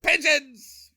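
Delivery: high, loud, slow hammed-up panic cry; Charlton Heston. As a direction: bellow it like an epic movie hero in distress. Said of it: "that's what I'm doing. I'm going with it".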